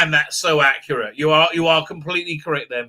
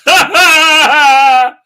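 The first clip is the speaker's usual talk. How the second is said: laughing; 10 semitones higher, 12 dB louder than usual. Real, not acted. Laughs at the idea.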